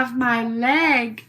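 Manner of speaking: put-on East Hampton socialite accent, slow; Little Edie. Finishing her leg boast, in an affected East Hampton accent. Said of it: "back to this little Edie thing".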